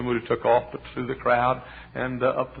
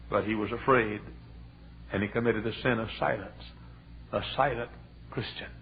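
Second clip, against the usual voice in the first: somber hush; 6 dB quieter than usual. Acted.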